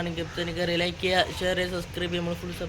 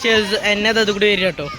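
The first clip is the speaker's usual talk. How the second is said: shouting; 4 semitones higher, 5 dB louder than usual. Real, not acted. Shouting to viewers outdoors.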